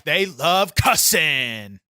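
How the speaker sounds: shouted slowly, word by word. Acted. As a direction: bellow it like a promo. Wrestler persona hammering a point.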